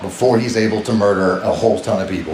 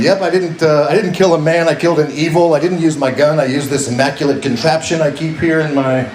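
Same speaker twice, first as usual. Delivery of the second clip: lightly played security guard, higher pitched at first; imagined interviewee; 3 semitones higher than usual. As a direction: play a guard explaining himself in an interview. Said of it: "imagine him going on in the interview".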